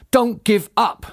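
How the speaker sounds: high urging with mild mock effort; panted. A narrator's reading. Mister Fox spurs his tiring family on, panting. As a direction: plead as if out of puff. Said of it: "panted Mister Fox".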